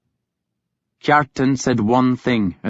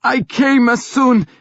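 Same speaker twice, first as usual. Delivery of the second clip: higher, louder start of an excuse; Ragnar starting to answer; 13 semitones higher, 3 dB louder than usual. A narrator's reading. Ragnar defending himself to his sister. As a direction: begin to explain, cut off. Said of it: "he began".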